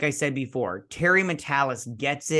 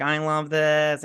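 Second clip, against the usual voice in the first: gushing; 2 semitones higher, slower than usual. Retold or imitated. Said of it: "I was like".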